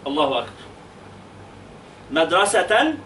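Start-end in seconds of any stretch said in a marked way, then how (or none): 2.1-2.9 MADRASATAN, ending in a clear "-tan"; tanween fath. Shown as a demonstration. Teacher models the pupil's task, MADRASATAN with fath ending. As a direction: end MADRASATAN on an N. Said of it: "نوني هذه الكلمة تنوين بالفتح".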